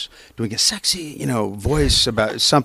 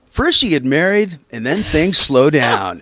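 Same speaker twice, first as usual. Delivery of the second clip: car ad read; 3 semitones higher, 3 dB louder than usual. Shown as a demonstration. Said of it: "a real fun one was".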